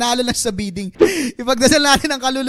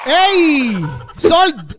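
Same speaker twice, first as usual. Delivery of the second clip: auctioneer; 3 semitones higher, 4 dB louder than usual. Pretend. Closing the auction.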